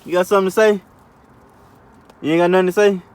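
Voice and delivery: put-on high, teasing baby-talk voice; playful baby talk. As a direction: coo at the car like a pet.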